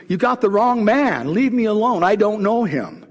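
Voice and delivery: insistent denial. Acted. Peter's second, more heated denial.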